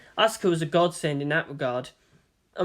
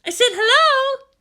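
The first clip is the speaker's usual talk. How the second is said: put-on much higher and louder insistent girl's voice; Asuka, insisting; 7 dB louder than usual. A narrator's reading. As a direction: push the greeting again, a bit irritated. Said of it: "she added".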